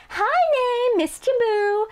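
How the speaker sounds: very high, sing-out sweet hello; gushing greeting. Acted. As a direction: greet a sweetheart over the top. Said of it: "contrast with the way he greeted M C".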